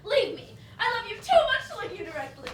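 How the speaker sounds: a loud, giddy refusal; loud laughing plea. Acted. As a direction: push him off, half laughing. Pushing him away.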